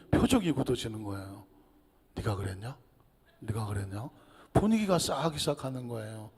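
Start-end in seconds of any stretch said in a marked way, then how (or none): 2.2-4.1 put-on low, hushed mutter between children; hushed kids. Children muttering to each other, low and soft. Kids whisper among themselves.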